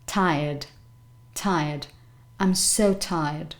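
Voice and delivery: tired with a light puff on the T; slightly breathed T starting tired; aspirated T. Shown as a demonstration. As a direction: say tired as T-hie-uhd, aspirated opening. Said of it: "slight aspiration at the beginning".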